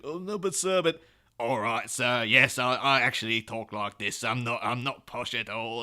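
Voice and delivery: a light mock flustered English butler; butler denying poshness. Butler Alfred caught out, protesting in a lightly voiced fluster. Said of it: "He's like".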